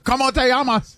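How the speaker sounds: mock Osaka accent. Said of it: "saying it like you're from Osaka".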